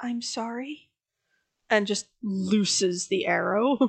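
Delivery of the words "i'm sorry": barely audible, much quieter voice. Game master voices Ava drawing her bow on Cleo: very quiet, as Ava. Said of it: "just say very quietly".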